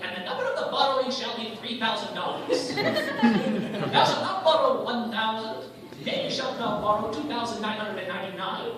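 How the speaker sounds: lightly mock King James decree; solemn scripture reading, a hint of it; biblical law voice. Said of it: "like the law of Moses up in here".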